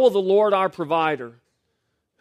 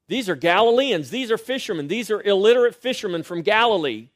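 scornful Pharisees; 5 semitones higher, 4 dB louder than usual. Retold or imitated. Pharisees voiced scoffing at disciples.

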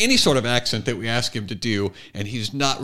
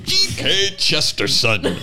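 mock British accent; 2 semitones higher, slower than usual. Praising the guest's awesome take, mock British accent. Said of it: "a halfway decent British accent".

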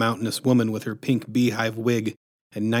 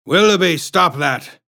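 sharp raised shout at a dog; 6 semitones higher, 5 dB louder than usual. A narrator's reading. Chef yelling at the barking dog, shouted. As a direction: call out high and loud, scolding. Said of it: "shouted the chef".

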